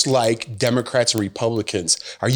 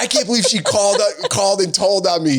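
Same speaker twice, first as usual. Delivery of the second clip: put-on high kid voice breaking into laughter; quick, giggly little-boy voice; son, laughing; 8 semitones higher, faster than usual. Dad retelling his son's line, high kid voice cracking up. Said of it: "And he goes".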